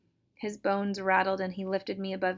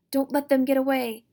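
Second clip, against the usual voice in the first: put-on higher, louder old woman's shriek; shrieking order; 5 semitones higher, 8 dB louder than usual. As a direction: scream across the wind at the monster. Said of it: "Old Auntie's voice".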